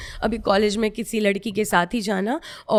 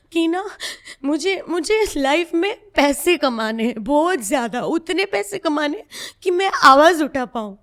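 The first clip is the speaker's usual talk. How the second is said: louder and higher, fervent vow; telling the interviewer her vow, voice raised and higher; real passionate resolve; 5 semitones higher, 4 dB louder than usual. Real, not acted. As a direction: swear it to yourself with rising force. Vows to earn, rising emotion.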